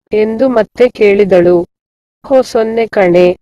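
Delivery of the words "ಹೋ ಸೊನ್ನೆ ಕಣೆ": singsong, leaning on "ಹೋ ಸೊನ್ನೆ ಕಣೆ"; stressed singsong. A narrator's reading. Girl reassuring her friend, stressed singsong "ಹೋ ಸೊನ್ನೆ ಕಣೆ". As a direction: say "ಹೋ ಸೊನ್ನೆ ಕಣೆ" emphatically, in a lilt. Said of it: "ರಾಗವಾಗಿ ನುಡಿದಳು Vanaja".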